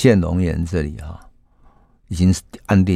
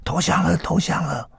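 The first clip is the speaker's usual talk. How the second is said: retold high call; 11 semitones higher, 5 dB quieter than usual. Reporter calls up from the street, high excited cry. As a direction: call up the stairs in pitched-up joy. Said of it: "楼下突然传来很高声的呼叫".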